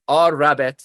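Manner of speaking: "R rabbit" with the R named and sounded firmly; teacher's R demonstration. Retold or imitated. Teacher showing newcomers the letter R, clear demonstration. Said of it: "she's the teacher saying".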